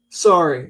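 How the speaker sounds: "sorry" rhyming with story; Canadian "sorry". Acted. Imagining a Canadian in a writing session, "sorry" said "sore-ee". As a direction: offer "sorry" with an "or" vowel. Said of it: "All right, story".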